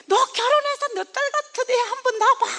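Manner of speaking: high, loud tearful scolding, half laughing; a retold mother's tearful outburst, lightly acted; imitating crying mother. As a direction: play the weeping mother pleading with her daughter. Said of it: "막 울면서".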